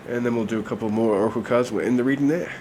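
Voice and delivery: stuffy nasal voice from a cold. Real, not acted. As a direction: speak through a blocked nose. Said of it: "I'll have to apologize for my nasally voice".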